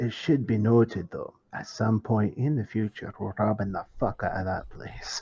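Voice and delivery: very low muttered aside under the breath. Dugan speaks while the others discuss the place; muttered under breath. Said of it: "kind of says under his breath".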